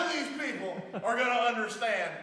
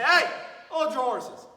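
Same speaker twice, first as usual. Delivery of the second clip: raised-pitch call to halt; yelled Southern warning; 5 semitones higher, 6 dB louder than usual. Shown as a demonstration. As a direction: holler it lightly at someone rushing. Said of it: "you even yell it and you say it".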